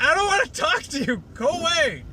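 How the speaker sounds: high, shrill cartoon shout; squeaky mock yell. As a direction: shoo her off like a flustered little pony. Fluttershy yelling.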